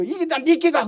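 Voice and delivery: angry Gyeongsang retort. Retold or imitated. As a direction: fire it back in Gyeongsang dialect, half-acted. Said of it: "경상도 사람이 화가 나가지고".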